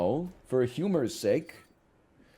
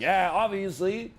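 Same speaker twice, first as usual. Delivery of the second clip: deadpan sarcasm; 6 semitones higher than usual. Pretend. Sarcastic reply to wife's question.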